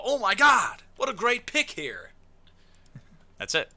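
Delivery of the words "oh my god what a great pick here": high-pitched mock fan gushing; hyped fan. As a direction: gush over the pick like an excited spectator. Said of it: "and you go".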